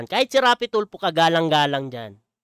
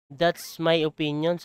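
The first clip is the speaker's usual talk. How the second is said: mocking quote; 2 semitones lower, 5 dB quieter, slower than usual. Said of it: "sabi niya, di ba?".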